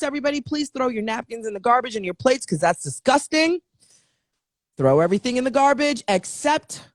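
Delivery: herd everyone out the door like a fed-up host; hammed-up hostess kicking guests out; mock party host.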